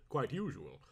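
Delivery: muttered. Acted. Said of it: "he muttered".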